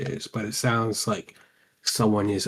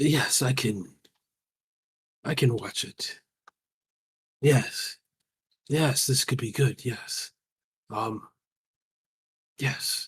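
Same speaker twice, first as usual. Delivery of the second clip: feeble, faltering, weak and halting, very slow; 3 semitones higher than usual. A weakened spirit in a music box agrees to watch an item, weakly. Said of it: "but he doesn't come out. / He says, kind of weakly. / I understand your weakened state".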